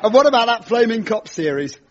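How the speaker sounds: a lightly voiced cheesy stand-up doing his patter; cheesy comic host. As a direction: play the corny club comedian working the crowd.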